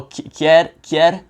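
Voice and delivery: "quier" clipped and rising at the end; rising question. Shown as a demonstration. Offering water, halting "quier" with a questioning rise. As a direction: ask "quier" with the tune going up. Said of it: "my voice intonation goes up at the end".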